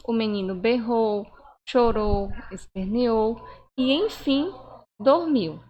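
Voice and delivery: cada verbo separado por uma pausa, "dormiu" mais forte; exemplo pausado. Shown as a demonstration. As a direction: leia a lista marcando bem cada vírgula. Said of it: "é uma sequência de ação". (pausa nítida em cada vírgula, "dormiu" com ênfase)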